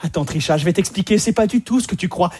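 lightly acted soothing boyfriend; calm her down like a film dub; reassuring dubbed man. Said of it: "Le mec, pour la rassurer".

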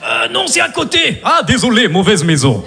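slow, low Russian gangster; heavy Russian cop accent, menacing; slow Russian-accented thug voice. Acted. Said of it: "Je fais bien l'accent comme ça".

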